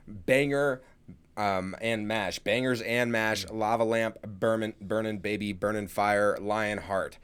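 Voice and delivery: slow, halting spoken freestyle; string words together like an improvised freestyle; weird freestyle. Pretend. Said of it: "That was a weird freestyle, bro".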